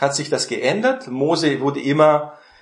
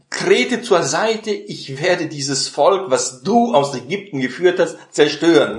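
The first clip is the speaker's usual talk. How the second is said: sarcastic God; 3 semitones higher than usual. Retold or imitated. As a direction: let the irony drip from each word. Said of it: "ironisch oder sarkastisch". (langsam und sarkastisch, Gott spricht zu Mose)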